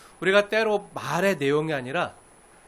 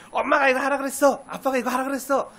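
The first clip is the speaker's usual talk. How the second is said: higher, sing-song tattletale voice; tattling little brother; 6 semitones higher than usual. Retold or imitated. Young Joseph lording parents' orders over his brothers, smugly. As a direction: tell on your brothers, smug and high. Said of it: "하면".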